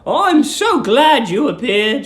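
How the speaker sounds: put-on high, sweet old landlady. A narrator's reading. Old landlady cooing at young guest Billy, high and sweet. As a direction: coo it like a doting landlady.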